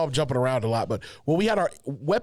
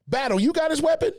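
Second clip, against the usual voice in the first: drill sergeant; 11 semitones higher than usual. Retold or imitated. Drill sergeant asking colleague.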